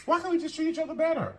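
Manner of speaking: high pleading. Real, not acted. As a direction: plead from the heart. Pleading repeat, much higher.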